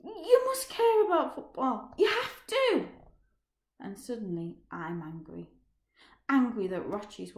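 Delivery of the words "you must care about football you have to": desperate plea. Acted. Pleads after Roger.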